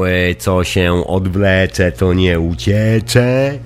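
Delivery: slow, congested sick voice; talking through a cold. Real, not acted. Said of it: "próbuję przegadać swój dziwny głos, przeziębiony głos". (przeziębiony głos)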